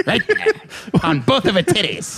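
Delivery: hammed-up pimp bragging through laughter; Jack Lemmon as pimp. Jealous pimp recounting revenge to his friend, hammed-up pimp. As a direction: play a mock-indignant pimp telling his tale. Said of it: "this character is Jack Lemmon if he was a pimp".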